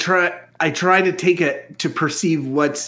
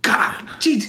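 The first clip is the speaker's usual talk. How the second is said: put-on disgusted young voice; 11 semitones higher, 3 dB louder than usual. Flea sees naked Archie.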